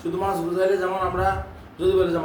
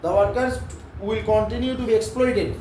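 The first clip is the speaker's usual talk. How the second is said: very slow, each word stretched for memorising; slow dictation; 3 semitones higher, much slower than usual. Shown as a demonstration. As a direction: dictate slowly so they can learn it by heart. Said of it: "এটা মুখস্থ রাখবি". (মুখস্থ করানোর জন্য খুব ধীরে বলা)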